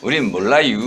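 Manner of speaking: 충청도 사투리 흉내; Chungcheong dialect. Shown as a demonstration. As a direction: repeat it Chungcheong style for the class. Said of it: "이게 충청도 버전이고요".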